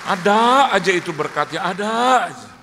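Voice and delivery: loud, stretched out preaching; emphatic. Real, not acted. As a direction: lean hard on ada aja. Preacher stresses God's blessings.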